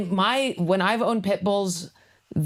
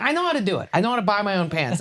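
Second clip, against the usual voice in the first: whiny mock protest; 4 semitones higher, faster than usual. Mock customer in a store.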